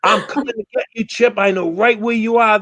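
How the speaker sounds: high, fast taunting voice, hammed up; mock menacing threat. Troll taunting Chip on the live stream, mock menacing. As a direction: rattle it off like a cartoon stalker.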